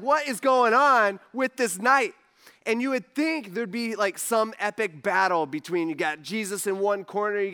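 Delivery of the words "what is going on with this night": exasperated cry. Retold or imitated. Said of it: "You know, like".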